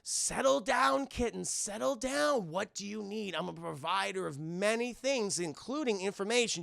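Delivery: lightly voiced sly cat dealer; smooth cat. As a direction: purr it like a shady dealer. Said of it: "the cat's just like".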